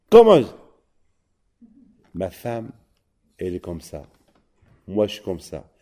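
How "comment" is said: shocked. Acted. Storyteller's shocked reaction.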